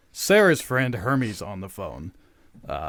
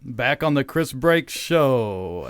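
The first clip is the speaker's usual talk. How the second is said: drawn-out radio welcome back; show host intro; 5 dB louder, much slower than usual. Real, not acted. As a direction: announce the show's return, stretching the name. Host reopening show after break.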